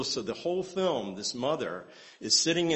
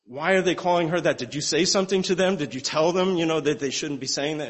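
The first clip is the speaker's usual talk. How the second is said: alarmed mother; 5 semitones higher, 6 dB louder than usual. Retold or imitated.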